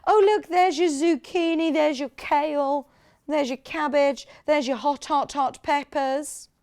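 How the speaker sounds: lightly posh, bright reading of the veggie names; a mild put-on posh voice naming vegetables. Presenter voicing co-host Kat reading the labels in a light posh voice. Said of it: "I know I've given her a posh voice".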